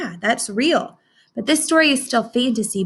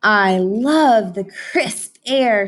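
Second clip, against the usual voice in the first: sniffing moose; 5 dB louder, much slower than usual. Acted. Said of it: "sniffed Moose".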